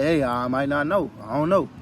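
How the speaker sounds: plain and firm, owning the not-knowing; confident honesty. Retold or imitated. Telling people honestly you don't know, said with firm assurance. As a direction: admit it without wavering. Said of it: "You gave them the truth".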